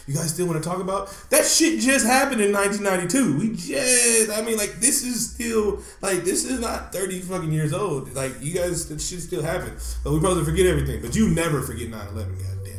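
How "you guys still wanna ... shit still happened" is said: raised pitch, building to a shout on the middle lines; half-played indignant outburst; mock exasperated rant. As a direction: rant back at them, fed up, shouting. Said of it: "It's like".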